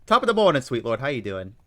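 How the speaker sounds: put-on playful London accent greeting the chat; mock London accent. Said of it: "trying to do a London accent".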